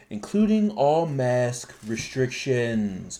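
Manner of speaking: drawn-out, deliberate delivery; slow emphasis. Real, not acted. Host telling co-hosts about masks, slow and pointed. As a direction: stretch each word for weight. Stresses shocking news to co-hosts.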